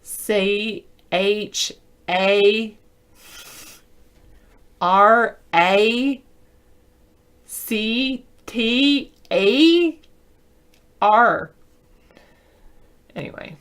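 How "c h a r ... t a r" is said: slow spelling out. Shown as a demonstration. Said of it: "It was character".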